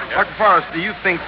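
urgent on-the-spot radio reporter; live radio report. Acted. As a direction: report live over the noise to the listeners. Reporter broadcasting live from observatory.

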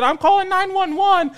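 high, loud mock threat; mocked threatening lady. Lady holding phone to her ear, mocked threatening caller. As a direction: imitate her shrieky announcement into the phone. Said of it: "held the phone up to her ear and said".

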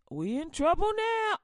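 We in trouble now shouted in panic; We in trouble now yelled out loud. Acted. Panic, then same line whispered.

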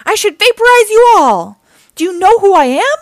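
very loud, high villain rant; fearsome alien threat. A narrator's reading. Dreg threatens the turtles, angry shouting. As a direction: threaten at full voice, pitched high. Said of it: "the fearsome creature".

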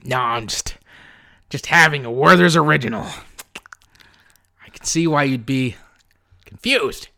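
halting old movie star, lightly voiced; Harrison Ford. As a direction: hesitate between phrases like a weary star. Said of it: "Harrison Ford".

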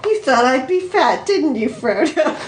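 teasing, half-amused question; lightly amused, slightly lifted pitch. Acted. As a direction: ask it with a chuckle breaking in. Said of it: "half amused".

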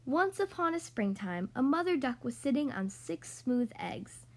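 lively, sing-song storybook reading; reading to children. Acted. Podcast host reading The Ugly Duckling to young kids, animated storytelling. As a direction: read it like a bedtime picture book for little kids. Reads picture book to kids.

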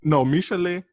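high-pitched attempt at a Puerto Rican accent; Jocelyn Hernandez. Co-host trying the reality star's accent, badly faked Puerto Rican. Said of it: "I can't do the accent like you".

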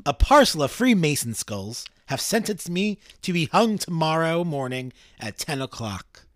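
slow, measured dramatic reading; formal letter reading. Acted. Condemned father writing to his daughter, slow formal reading. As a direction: read it out with mild solemnity, unhurried.

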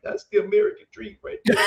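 high, loud exclamation cracking up mid-line; laughing shout. Retold or imitated. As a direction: blurt it out while bursting into laughter. Retold moved broker, laughing.

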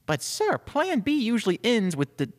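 high, urgent assistant voice; protesting assistant. Acted. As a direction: plead with the boss to reconsider. Assistant protests the chief's plan.

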